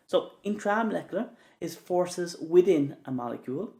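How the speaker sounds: within stretched and pushed; stress on within. Shown as a demonstration. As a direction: lean on the word within. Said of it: "the emphasis on the word within".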